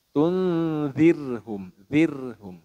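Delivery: light, spread r in "zirhum"; thin tarkik r. Shown as a demonstration. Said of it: "Bacanya itu meringis".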